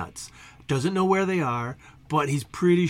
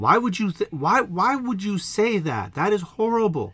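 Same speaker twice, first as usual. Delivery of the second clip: appalled squirrel; 4 semitones higher than usual. Acted. Squirrel appalled by penguin's warning.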